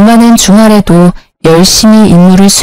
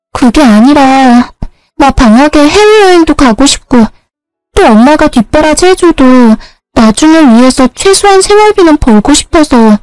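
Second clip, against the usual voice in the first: pleading younger sister; 6 semitones higher than usual. A narrator's reading. Younger sister explains her part-time job to her older sister, pleading and higher. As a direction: make the little sister beg to be understood.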